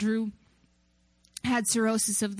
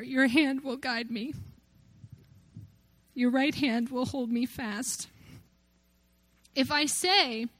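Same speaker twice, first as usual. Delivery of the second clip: real tearful scripture reading, halting; reading through tears; 3 semitones higher than usual. Real, not acted. Preacher reading Psalm one thirty-nine to congregation, through tears. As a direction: read on through tears, pausing and stumbling. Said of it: "I am literally reading through tears".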